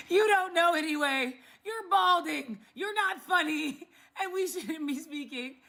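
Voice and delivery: roast him while laughing; mocking laughter; laughing taunts. Real, not acted. Laughing insults at the man.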